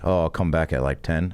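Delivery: low, unbothered roommate impression; Blake. Roommate offering to return later, imitated low. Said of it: "He talked like this".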